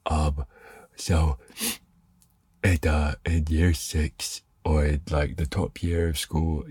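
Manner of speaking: talking with a blocked nose; stuffy nose. Real, not acted. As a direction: speak through a stuffy nose after sneezing. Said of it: "gonna talk with a stuffy nose".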